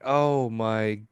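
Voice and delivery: very slow drawn oh my God; mortified reaction. Retold or imitated. Watching Sheldon invade Leonard's space, very slow. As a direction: drag it out in cringe.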